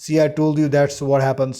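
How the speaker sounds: slow teasing told-you-so; sarcastic. Shown as a demonstration. Teacher mocking a careless student, lightly sarcastic. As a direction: needle them gently with a smug edge. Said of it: "sarcastic वे में बोल रहे हैं हम".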